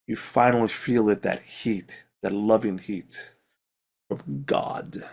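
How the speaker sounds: slow, hushed divine-warmth narration; scene narration. Acted. Game master soothing the cleric with divine warmth. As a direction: draw them into the glow.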